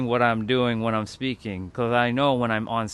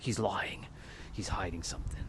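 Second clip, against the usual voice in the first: P=A; hushed suspicious murmur; 5 semitones lower, 12 dB quieter than usual. Shown as a demonstration. Mock audience voicing suspicion.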